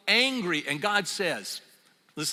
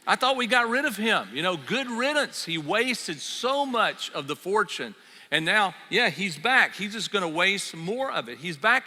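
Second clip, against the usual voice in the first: higher, a bit louder grumbling complaint; resentful older brother; 3 semitones higher, 3 dB louder than usual. Acted. Older brother resenting his returning brother, raised and bitter. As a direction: rant about the wasteful brother's return. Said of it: "The older brother was angry".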